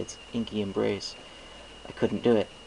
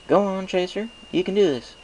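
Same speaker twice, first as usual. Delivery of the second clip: higher, gentle farm-mare urging; encouraging Applejack; 11 semitones higher, 4 dB louder than usual. A narrator's reading. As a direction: coax a nervous friend on. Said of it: "trying to encourage me".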